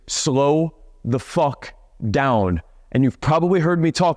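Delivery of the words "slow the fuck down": slow it down to show the point; stretched-out coaching line; slow, deliberate. Shown as a demonstration. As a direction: drag each word out slowly. Coach drawing out his own advice.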